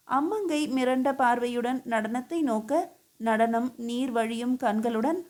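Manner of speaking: ordinary delivery, nothing marked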